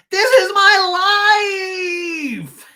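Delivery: very high, drawn-out hammed-up scream; the speaker screaming at Emily and Tamara, mock meltdown. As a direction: wail it loudly, stretching the last word. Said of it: her screaming.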